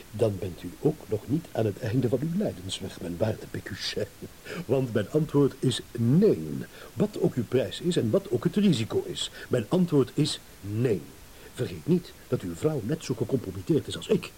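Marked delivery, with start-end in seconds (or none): 4.6-6.6 slow, weighty and louder, each word set down; a cold, measured no; firm refusal. Acted. Flat refusal of a blackmail attempt. 9.5-11.0 unbending no; firm refusal. Acted. Refusal repeated.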